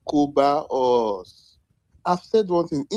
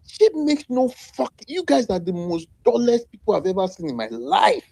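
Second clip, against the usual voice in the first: exasperated outburst; 6 semitones higher than usual. Real, not acted. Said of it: "the way I'm getting angry".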